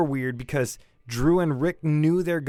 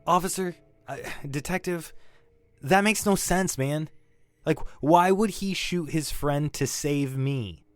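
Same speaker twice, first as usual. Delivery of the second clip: rising desperate protest; 3 semitones higher than usual. Acted. Witness protesting to the detective, rising desperate protest. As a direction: fight the detective's version, voice climbing.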